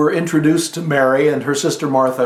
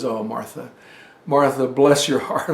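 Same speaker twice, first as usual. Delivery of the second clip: gentle Jesus; 3 semitones lower than usual. Retold or imitated. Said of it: "I can just hear him".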